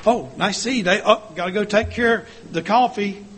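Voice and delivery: too busy to stop and chat; lightly acted excuse to get away; hurried brush-off. Acting out busy church member's brush-off.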